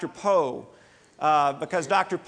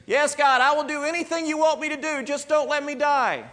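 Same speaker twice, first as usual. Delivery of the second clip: desperate pleading; 9 semitones higher, faster than usual. Acted. Man dangling off a cliff begging God to save him. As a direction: beg for your life.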